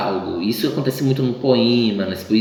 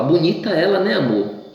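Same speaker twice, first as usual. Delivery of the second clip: high, mock-sweet jab; pointed fake compliment to the boyfriend; girlfriend's sarcastic remark, pitched high; ironic girlfriend; 7 semitones higher than usual. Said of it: "E isso é a ironia".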